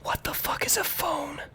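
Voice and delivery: very high, soft voice; hushed high figure voice; baffled woman. Acted. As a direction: ask in small, high-pitched confusion. Game master voices baffled woman.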